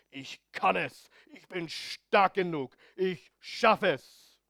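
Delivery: slow, emphatic self-affirmation; mock success preacher. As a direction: imitate a motivational teacher, stretching each phrase. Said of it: "Erfolgslehre sagt". (übertrieben gedehnte Erfolgsparole)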